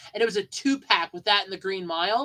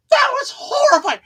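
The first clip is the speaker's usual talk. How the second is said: laughing; 9 dB louder than usual. Real, not acted. Laughing aside.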